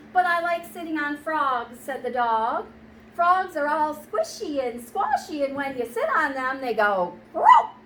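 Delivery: a lightly voiced mischievous dog; dog teasing the frog in a picture book; cheeky dog. Dog character defends sitting on frogs.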